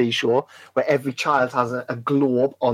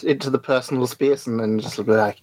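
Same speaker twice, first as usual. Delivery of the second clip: normal talking voice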